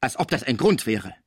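gruffly dismissive retort; rude interruption. Acted. Cibot cuts off Pons's excuse, rudely dismissive. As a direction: cut in roughly and brush it aside. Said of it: "fiel ihm die Cibot grob ins Wort".

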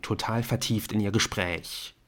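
ordinary delivery

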